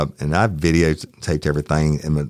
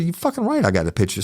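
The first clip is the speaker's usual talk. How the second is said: emphatic retort; 11 semitones higher, faster than usual. Retold or imitated. Retorting to officer.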